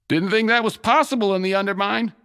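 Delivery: high amused quip; laughing remark. A narrator's reading. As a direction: chuckle through the line. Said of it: "said with a laugh".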